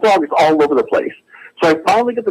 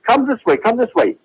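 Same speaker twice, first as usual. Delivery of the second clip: rapid-fire higher-pitched hail; calling out; 6 semitones higher than usual. Retold or imitated. Caller retells hailing an old man on his bicycle, calling out. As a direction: mildly re-enact hailing someone urgently. Hailing cyclist in retold scene.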